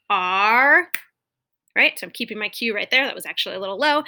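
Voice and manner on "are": louder prompting cue word; cue for echo. Shown as a demonstration. Teacher cueing students to repeat, louder. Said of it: "Doing that same one".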